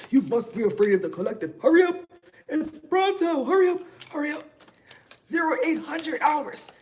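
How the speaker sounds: fast, high, bossy mock order voice; mocking the collective. Mocking the collective's hurry-up orders. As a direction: rush them like a pushy drill sergeant. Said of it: "That's how they sound".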